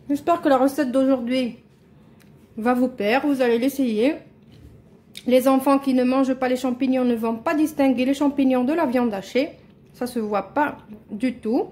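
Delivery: talking through a mouthful; words around a bite of food; mouth full. Real, not acted. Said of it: "Désolée, je parle la bouche pleine".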